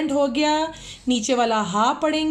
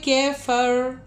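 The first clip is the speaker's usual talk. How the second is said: slow melodic tajweed chant; Quran recitation; much slower than usual. Acted. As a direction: draw out each verse in measured chant.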